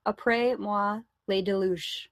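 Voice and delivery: "Après moi, le déluge" in a French pronunciation; French reading. Shown as a demonstration. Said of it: "I'll read it to you".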